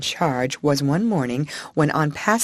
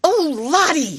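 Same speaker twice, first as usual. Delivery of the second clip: high, flustered cry, a bit louder; a frantic plea to calm her; Miss Amelia's mild scream; 11 semitones higher, 3 dB louder than usual. A narrator's reading. Miss Amelia to the crying child, a high flustered cry. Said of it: "screamed Miss Amelia".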